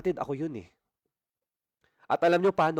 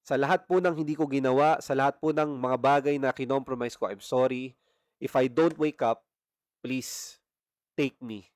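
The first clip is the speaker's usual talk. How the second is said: retold tearful prayer; 2 semitones lower than usual. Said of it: "Umiiyak lang ako doon na parang bata".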